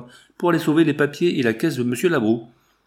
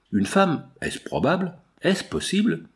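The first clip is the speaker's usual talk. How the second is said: stupéfaite; 7 semitones higher than usual. Acted. Mme Bertin apprend la coupable.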